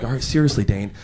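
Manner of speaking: imitating an earnest boss, a little low; brief the new manager with mock gravity; lightly voiced serious manager; all serious. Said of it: "he got all serious".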